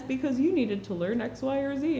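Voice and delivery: a hint of a knowing little voice; little inner voice. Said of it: "I hear this little voice".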